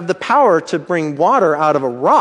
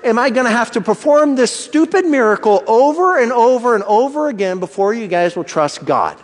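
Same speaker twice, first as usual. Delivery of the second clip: weary, fed-up complaint, pitched up; exasperated Moses; 6 semitones higher than usual. Retold or imitated. Preacher voicing Moses fed up with the grumbling people, exasperated. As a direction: sigh it out like a tired leader at wits' end. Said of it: "I can just imagine Moses thinking".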